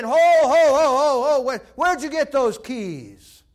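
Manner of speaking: very loud, high cries of protest; hammed-up outraged holler; Hell hollering. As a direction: bellow in alarm, stretching the question. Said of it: "and hell saying".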